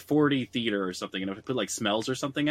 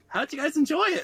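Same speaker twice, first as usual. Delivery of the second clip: much higher, chirpy parent voice; cheery parents. Retold or imitated. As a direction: play the upbeat parent asking brightly. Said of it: "my parents were like".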